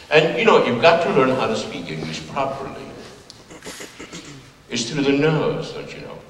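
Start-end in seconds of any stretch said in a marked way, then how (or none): 4.7-6.2 mock British nasal. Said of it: "The more nasal you are".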